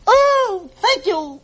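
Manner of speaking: chirped. Acted. Gertrude thanks her uncle with a cheerful chirp. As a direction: chirp it like a happy little bird. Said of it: "chirped Gertrude McFuzz".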